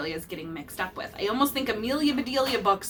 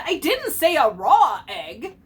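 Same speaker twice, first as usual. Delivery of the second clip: annoyed scolding; 6 semitones higher, 8 dB louder, slower than usual. A narrator's reading. Mister Rogers scolding Amelia.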